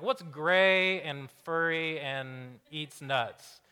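drawn-out Sunday school teacher voice; teacher quizzing the class, slowly; slow teacher question. Retold or imitated. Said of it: "the Sunday school teacher asks".

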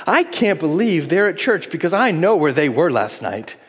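mock scandalized, stress on I; hint of churchy disapproval; judgmental. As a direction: gossip about the sinner. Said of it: "We love to judge other people".

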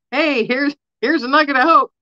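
high, bright-voiced mock hello; nervous sing-song greeting. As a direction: chirp it up high like an awkward friendly stranger. Imagined greeting to a stranger.

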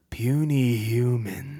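very slow, strange, menacing overlord; booming arrogant alien overlord. Retold or imitated. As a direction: drag out each word like a god. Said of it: "the lights went out".

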